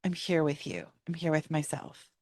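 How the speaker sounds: soft and quiet, hand on heart; softly telling yourself you are present; gentle self-reassurance. Shown as a demonstration. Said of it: "and saying".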